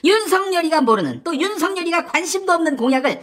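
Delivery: high-pitched, exasperated rant; heated berating. Acted. Rival attacking promises made without approval, heated berating. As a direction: build a scolding to an exasperated question. Acted quarrel, berating the candidate.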